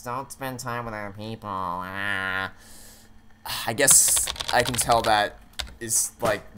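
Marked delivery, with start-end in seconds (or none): 0.0-2.5 soft mock whimper; drawn-out, feeble clingy moaning; clingy asshole. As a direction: whimper it like a needy partner, quietly hammed up. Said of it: "a clingy asshole who's like".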